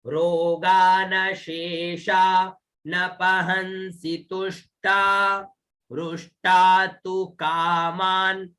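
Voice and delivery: slow, measured chant of the whole verse; teacher reciting the full verse to be copied; slow shloka recitation. Shown as a demonstration. Slowly recite the verse for the class. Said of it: "पूरा देखिएगा".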